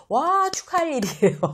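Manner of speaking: high, loud cry of delight; exaggerated congratulations. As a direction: burst out celebrating. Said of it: "감탄하고 좀 오버하고". (높고 크게 축하하며 감탄)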